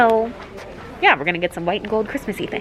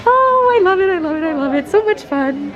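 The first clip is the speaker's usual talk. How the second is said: thrilled; 9 semitones higher, 4 dB louder than usual. Real, not acted. Thrilled at decorations.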